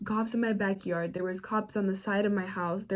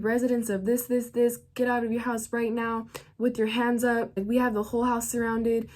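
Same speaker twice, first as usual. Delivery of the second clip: imitated megaphone yelling; 3 semitones higher than usual. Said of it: "They were just yelling and yelling".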